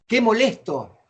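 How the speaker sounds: a touch of mock annoyance; exclaimed annoyance. Shown as a demonstration. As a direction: demonstrate mild exclaimed irritation. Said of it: "el signo de admiración que decimos".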